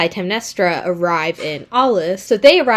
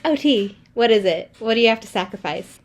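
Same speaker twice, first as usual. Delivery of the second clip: lightly higher eager daughter; a hint of a chirpy teen; mock girly daughter; 3 semitones higher than usual. Daughter asking her dad what he must sacrifice, lightly chirpy. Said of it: "Iphigenia is like".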